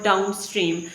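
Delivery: "downstream" with the weight on stream; stress on STREAM. Shown as a demonstration. Teacher giving an example word, stress on stream. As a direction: stress the second part, stream. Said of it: "the final element is stressed".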